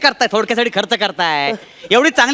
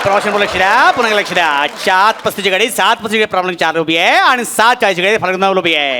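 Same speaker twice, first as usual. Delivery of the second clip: through a megaphone; 4 semitones lower than usual. Acted. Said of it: "जरा हलू बोल ना".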